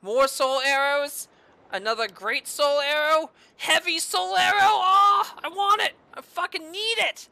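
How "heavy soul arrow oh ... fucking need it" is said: high, greedy eager voice; eager excitement. Real, not acted. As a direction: want it badly. Craving new spells.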